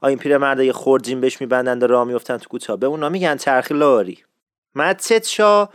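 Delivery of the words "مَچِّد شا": slow مسجد شاه as "matched sho"; Isfahani pronunciation. Shown as a demonstration. Teacher introduces the mosque's local name, Isfahani pronunciation. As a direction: say مسجد with a doubled "ch". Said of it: "تلفظ صحیحی مسجد شاه".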